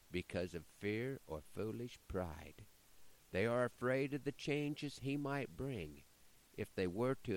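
measured, rhythmic poem reading; poem recitation. Acted. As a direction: recite it like a cowboy poet.

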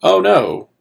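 hammed-up ostrich going oh no; ostrich's alarm. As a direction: squeal it like a panicked cartoon ostrich. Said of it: "Kumail Nanjiani, the ostrich, is like".

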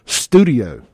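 punchy showy flourish on the word; with extra sauce. Shown as a demonstration. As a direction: put some sauce on it. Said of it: "Gotta put that sauce on it".

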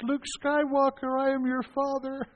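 put-on a kid's tinny try at the villain line; boy doing Vader. Boy in oxygen mask answers chaplain, high tinny Vader. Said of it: "in his little tinny eleven-year-old voice".

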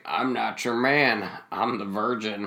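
slow, low, quiet deadpan; deadpan low quote. Retold or imitated. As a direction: flatly confess it, dropping low. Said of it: "and he's like".

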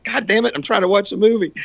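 high-pitched whiny exasperation, retold; mock whine of an annoyed kid; exasperated protest. Kid to dad during the movie, mock exasperation.

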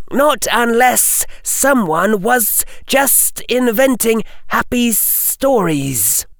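high, terse hissing snake-speech; young snake speaker. Acted. Harry in Parseltongue.

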